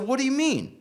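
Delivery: high, stunned question; shocked. Retold or imitated. Hearing his friend is dead, shocked high question. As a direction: ask it in disbelief.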